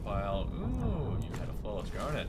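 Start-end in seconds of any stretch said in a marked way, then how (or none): 0.5-1.2 high excited ooh. Real, not acted. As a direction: ooh with sudden delight. Excited at loot.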